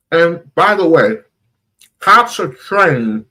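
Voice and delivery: talking with a mouthful of food; mouth full. Real, not acted. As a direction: say it while still chewing. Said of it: "sorry, I got food in my mouth".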